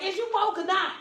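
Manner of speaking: high, loud laughing tease; mock the cousin playfully; teasing. Speaker teasing his cousin, laughing high. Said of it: "I'd be like".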